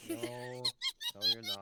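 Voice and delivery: sudden very high squeak, loud; voice shooting up. Real, not acted. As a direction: let the voice leap octaves mid-protest. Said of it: "your voice going up five octaves".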